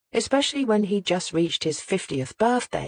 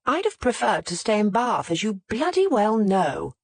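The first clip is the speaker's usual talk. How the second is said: sharp raised snap; snapping; 5 semitones higher than usual. Acted. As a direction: snap it back at him. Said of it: "Margaret snapped".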